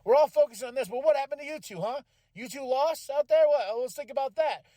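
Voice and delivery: rally the team like a leader scolding them; fired-up leader. Retold or imitated. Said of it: "I love what Damien does here as a leader".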